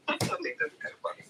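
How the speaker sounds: very high laughter that melts into speech; laughing. Real, not acted. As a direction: giggle through the words. Laughing at the joke.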